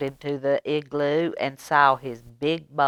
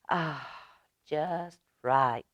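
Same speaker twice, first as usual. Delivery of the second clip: soft contented murmur; drowsy murmur; 6 dB quieter, slower than usual. Acted. Aluki settling into the small bed, murmuring softly. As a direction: murmur it, half asleep. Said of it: "Aluki murmured".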